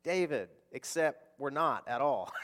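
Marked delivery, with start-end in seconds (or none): 0.0-0.5 slow sing-song teacher voice, lightly done; mock children's teacher. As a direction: drag it out like a sugary Sunday-school teacher. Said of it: "and they say".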